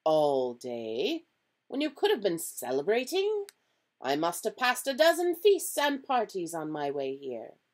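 mild astonishment, voice lifted; incredulous Dumbledore. A narrator's reading. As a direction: lightly play a professor in disbelief.

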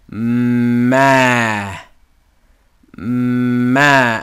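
Ma said as a clean M then open ah; sounded-out syllable. Shown as a demonstration. Teacher modelling Ma for Hebrew students, clearly sounded out. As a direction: blend the m straight into a full ah, Ma. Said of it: "we sound out the consonant first".

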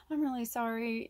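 mean it this time; gently sincere sibling apology; sincere sorry. Retold or imitated. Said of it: "if you're really sorry".

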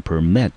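"permit" stressed on the second syllable, MIT; "permit", light first syllable, stressed second. Shown as a demonstration. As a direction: model the verb "permit" as per-MIT. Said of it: "这个字我们念成permit".

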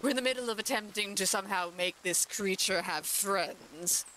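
a hint of a grand duchess. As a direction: play the lady of the house addressing guests. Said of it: "now I gotta go back to the Duchess voice".

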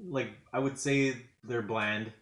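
talking through a mouthful; chewing while speaking; mouth full. Real, not acted. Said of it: "As I talk with my mouth full".

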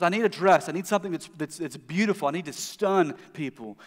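desperate wife. Retold or imitated. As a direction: voice the wife begging for a dress. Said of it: "she says".

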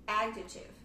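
adjective stressed on AD at the start; AD-jective, first syllable leading. Shown as a demonstration. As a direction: say adjective with a strong opening AD. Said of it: "a primeira sílaba, sílaba que é a sílaba tônica".

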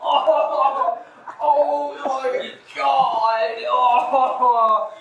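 loud, slow cries of disgust; disgusted shout. Real, not acted. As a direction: yell out in real disgust. Sprayed in the face, disgusted.

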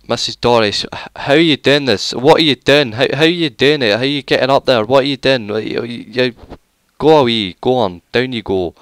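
loud, high-pitched rapid-fire telling-off; hammed-up indignant shouting; mock scolding. Scolding a game character in alarm.

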